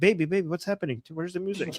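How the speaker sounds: soft, coaxing imitation of the husband; calm sweet talk. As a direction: sweetly coax the wife, dropping to near softness. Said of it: "So his tone changed to calm".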